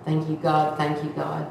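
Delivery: low, soft repeated thanks; hushed, self-soothing retold prayer; calming herself down. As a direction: murmur it to steady yourself. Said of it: "trying to calm myself down".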